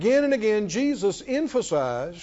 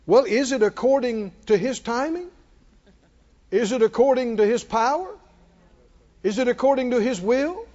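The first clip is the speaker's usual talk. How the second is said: preaching, rising questions; 4 semitones higher than usual. Acted. Preacher mocks the doubts of the congregation with rising questions. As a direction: build each "according to" question with a lift at the end.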